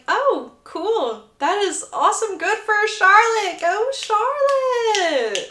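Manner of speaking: high, long-drawn congratulations; hammed-up enthusiasm, slowing right down; over-bright cheering. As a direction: stretch it out into a high, forced cheer. Feigning delight at engagement news.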